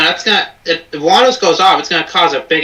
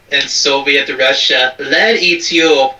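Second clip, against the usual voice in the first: put-on Russian accent; 2 semitones lower, slower than usual. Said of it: "my Russian accent's fucking horrible".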